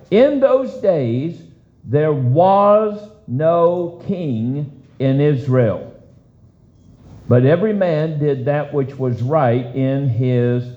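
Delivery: slow, deliberate reading of the verse; solemn scripture reading. Real, not acted. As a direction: read the verse weighty and slow.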